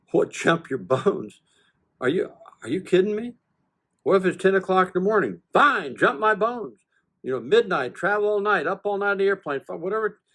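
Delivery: husband voicing his wife's incredulous retort to his request. Wife's incredulous reply, voiced by the husband.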